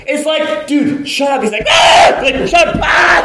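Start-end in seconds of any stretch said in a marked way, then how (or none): 0.7-1.4 exasperated hushing. Acted. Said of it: "kinda like that with this beggar". 1.7-2.2 loud comic "Ah!" yell; sudden hammed-up wail; mock beggar's scream. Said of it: "it starts screaming louder". 2.5-3.2 loud, high comic yelling; high-pitched escalating mock holler; mock screaming match.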